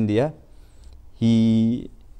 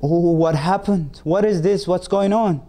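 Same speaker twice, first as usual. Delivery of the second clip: high, louder alarmed questions; frightened; 8 semitones higher, 3 dB louder than usual. A narrator's reading. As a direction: panic rising at the bird's collapse. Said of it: "the merchant feels frightened".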